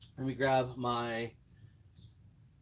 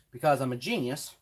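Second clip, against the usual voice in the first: sarcastic. Real, not acted. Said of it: "take that in all sarcasm".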